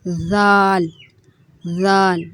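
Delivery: زال said softly, tongue tip at the upper teeth; a gentle زال; soft letter demo. Shown as a demonstration. Teacher modelling soft زال. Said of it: "زا بھی نرمی سے پڑھا جانے والا حرف ہے".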